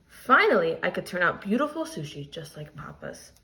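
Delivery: expressive read-aloud storytelling; story reading. A narrator's reading. Teacher reading a picture book aloud to her class, expressive storytelling. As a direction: tell the story to the class with feeling.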